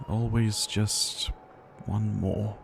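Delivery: tired resignation after the push; weary sigh. Acted. Sighing after the outburst.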